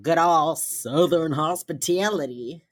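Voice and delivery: imitating a poor Southern accent; hammed-up Southern twang; bad Southern accent. JJ joking about good old hospitality, bad Southern accent. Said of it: "She does the worst Southern accent".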